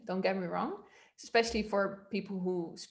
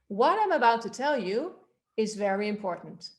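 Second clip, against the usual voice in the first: "What I'm" starts high and loud, "very important" drops; high-pitched start; 3 dB louder than usual. Shown as a demonstration. Coach modelling melody for the class, starting high. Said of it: "in a high pitch".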